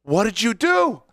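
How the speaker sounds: put-on high, slow, appalled old lady voice; shocked old lady. Old English lady sees her dog kicked, high appalled cry. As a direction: gasp it out like a horrified hostess.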